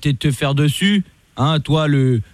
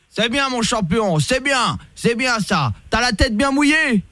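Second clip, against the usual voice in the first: mock praise; 6 semitones higher, slower than usual. Fake cop praising the rapper like a kid, mock praise. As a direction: praise him like a child. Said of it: "commissaire Latour".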